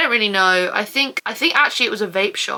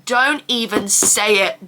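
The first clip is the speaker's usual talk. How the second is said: warding off a jinx; slower than usual. Real, not acted. To herself after tempting fate about a UTI, slow firm warning. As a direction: say it slowly to stop the jinx. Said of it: "it's a miracle I haven't had".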